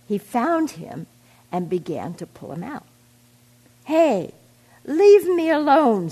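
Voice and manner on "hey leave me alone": high, loud panicked scream. A narrator's reading. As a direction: shriek to be left alone. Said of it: "screamed the worm".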